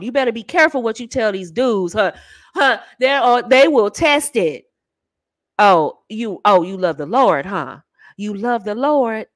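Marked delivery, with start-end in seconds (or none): 5.6-9.3 low, skeptical male imitation; mocking man. Man doubting a church girl, mockingly skeptical. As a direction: tease her claim in a lowered voice.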